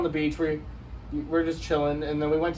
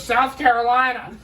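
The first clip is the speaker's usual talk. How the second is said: slow, higher-pitched imitation of her retort; mock defiant answer; 5 semitones higher, slower than usual. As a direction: draw it out defiantly as the stranger. Retold lady proudly answering back.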